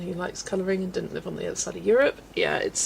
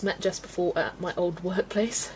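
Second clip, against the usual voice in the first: whispered aside; soft whispered remark; 6 dB quieter than usual. Real, not acted. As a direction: drop to a whisper. Whispered aside while colouring.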